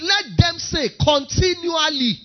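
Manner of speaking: preached proclamation. Acted. Preaching climax.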